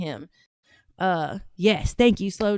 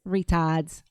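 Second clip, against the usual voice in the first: "Retards" lightly mimicked in an Aussie accent; imitated Aussie accent; 4 semitones lower than usual. Host copying the Aussie boy's word, imitated Australian accent. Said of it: "I'm gonna say retard like this".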